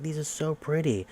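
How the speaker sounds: mock-sweet girl admiring a gift; imitating delighted girl. Girl receiving flowers, retold.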